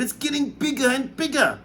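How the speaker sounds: aunt crying out as the peach grows; amazed cry. A narrator's reading. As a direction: draw it out in awe. Continues amazed.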